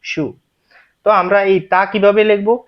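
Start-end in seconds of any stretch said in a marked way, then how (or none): 0.0-0.2 সু read as "tsu" after spelling it; romaji tsu reading. Shown as a demonstration. Teacher reads out the romaji letters for learners, সু as "tsu". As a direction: join T, S, U into one syllable, সু. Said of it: "রুমানি অক্ষরের মতে এই যে এটা".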